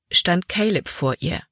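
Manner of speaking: plain reading voice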